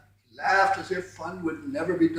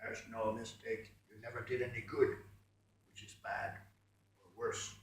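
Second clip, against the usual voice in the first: low, softer sneering voice; scornful voice; 6 semitones lower, 14 dB quieter than usual. A narrator's reading. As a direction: look down on him coldly. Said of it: "said the scornful voice with a curse".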